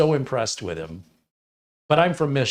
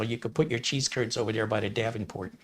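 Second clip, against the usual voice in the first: put-on light Wisconsin accent, casual patter; a mild Upper Midwest accent; 6 dB quieter than usual. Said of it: "he talks a little like this".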